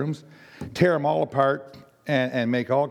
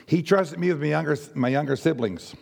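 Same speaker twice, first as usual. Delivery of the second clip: strained raspy voice from overuse; 3 semitones higher than usual. Real, not acted. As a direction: talk through a worn raspy throat. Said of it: "Sorry for my raspy voice".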